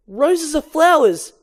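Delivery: high, loud, slow declaration; triumphant shout. Acted. Barry shouts beside the cab to Vanessa, a slow loud triumphant call. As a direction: announce it like a big discovery. Barry yelling while flying.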